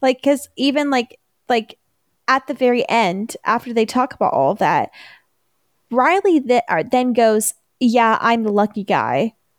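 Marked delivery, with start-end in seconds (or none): 7.8-9.3 heavily sarcastic, mock-grateful, swooping pitch. Retelling a line from an episode: imitating Riley's sarcastic tone. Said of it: "a sarcastic thing that he says".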